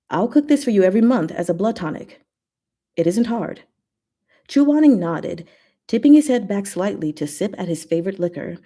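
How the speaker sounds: reading a fic aloud, lightly performed; story reading. Acted. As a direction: read it like a storyteller. Reads a fanfic aloud.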